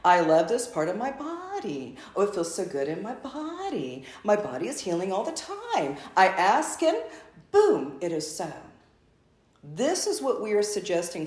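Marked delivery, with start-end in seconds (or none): 0.1-8.5 tender self-talk, lightly voiced; gentle. Shown as a demonstration. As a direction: say it kindly, as if soothing your body. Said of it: "just gently saying".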